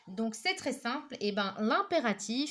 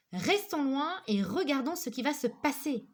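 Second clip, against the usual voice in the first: exclamatory tone; 4 semitones higher than usual. Shown as a demonstration. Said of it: "bien mettre le ton".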